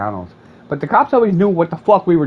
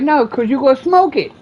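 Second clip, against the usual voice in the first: much higher, louder refusal; mock yell; 13 semitones higher, 5 dB louder than usual. To the begging man, a loud mocking refusal. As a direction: call him out, half-shouting.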